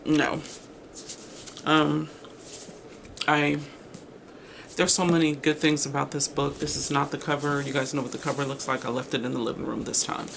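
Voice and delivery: talking while chewing gum; words round a piece of gum. Real, not acted. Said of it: "Pardon me while I put gum in my mouth".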